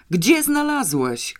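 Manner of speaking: father desperate to know; anguished shouted question; piercing cry. A narrator's reading. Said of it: "krzyknął wręcz rozdzierająco".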